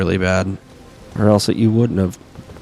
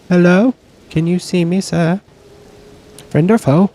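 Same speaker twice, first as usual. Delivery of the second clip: mock greeting; 10 semitones higher, 3 dB louder than usual. Taunting enemy NPC in game.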